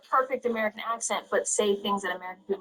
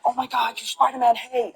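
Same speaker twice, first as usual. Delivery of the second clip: higher, lively fan greeting; excited fan; 5 semitones higher, 5 dB louder than usual. Retold or imitated. Fan meeting Spider-Man, mildly excited imitation. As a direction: imitate a fan spotting a star.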